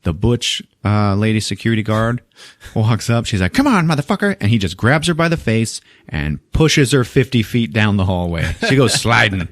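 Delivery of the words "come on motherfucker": high taunting dare; mock tough challenge. Security guard squaring up to Arnold, high taunt. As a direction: dare him in a squeaky tough voice.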